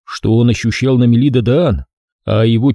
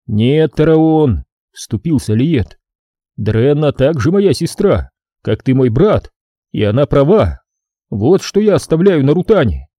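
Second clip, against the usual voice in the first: raised voice; 3 semitones higher than usual. Acted. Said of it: "повышая свой голос".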